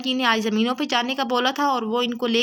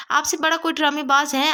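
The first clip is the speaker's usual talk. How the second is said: taunting with a touch of scorn; lightly sarcastic retort; sarcastic jab; 3 semitones higher than usual. Acted. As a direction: throw the question back at him mockingly. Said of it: "طنز سے کہا".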